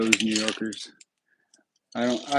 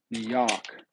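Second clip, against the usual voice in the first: "New York" with a dropped R, like "Noo Yawk"; New York accent. Shown as a demonstration. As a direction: say "New York" like a local New Yorker, R-less. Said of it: "Should say it like a New Yorker".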